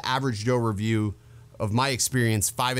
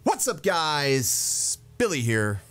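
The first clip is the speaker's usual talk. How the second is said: YouTuber impression; much slower than usual. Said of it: "It's more of like a huh".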